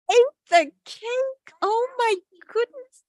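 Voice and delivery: high, shocked announcement. Acted. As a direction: gasp out what he did. Shocked reveal to kids.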